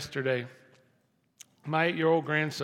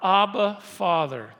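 loud call of Abba, falling on Father; crying out; 4 semitones higher, 6 dB louder, slower than usual. Acted. Pastor repeating the verse, crying out loudly. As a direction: cry out the name. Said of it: "But we, we cry".

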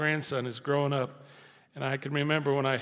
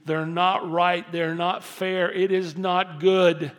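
slow, louder pleading lament; crying out; 3 semitones higher, 6 dB louder, slower than usual. Pretend. A believer crying out to God in a slow, loud lament. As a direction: pour out the complaint slowly and loudly. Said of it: "to cry and say".

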